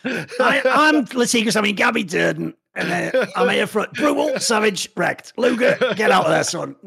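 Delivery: mock her cartoonish caster voice with too much intonation; mocking a caster's overdramatic play call, hammed-up shout; over-the-top caster impression. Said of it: "she was trying to do a Red Eye impersonation".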